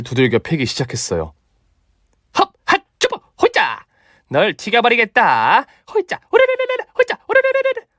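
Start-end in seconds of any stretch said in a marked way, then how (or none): 2.4-7.9 high shrill martial arts shouts; hammed-up kung fu kiai; kung fu battle cries. Mother beating with kung fu. (무술 기합 소리)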